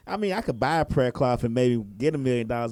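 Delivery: skeptical. Retold or imitated. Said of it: "and say".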